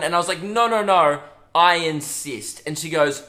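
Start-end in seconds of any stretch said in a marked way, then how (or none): 0.4-2.6 loud polite insisting, slow on I insist; insistent. Retold or imitated. To the mum in the toilet queue, loud polite insisting. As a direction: insist hard that she go first.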